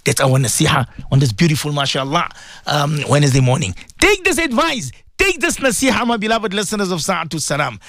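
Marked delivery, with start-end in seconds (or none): 4.0-7.8 high, urgent preacher's call; preaching fervour. Acted. Radio preacher urging his listeners, high and fervent. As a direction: press the advice home from the pulpit. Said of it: "That's why I'm speaking like that".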